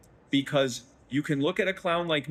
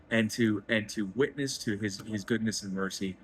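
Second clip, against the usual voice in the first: near tears; 3 semitones lower than usual. Real, not acted. Host praising God on the podcast, close to real tears. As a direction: let it catch in the throat, barely holding on. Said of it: "I'm gonna cry".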